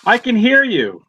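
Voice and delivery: tinny, like through a tin can; bad laptop mic sound; thin voice no bass. Real, not acted. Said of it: "You sound like you're in a tin can".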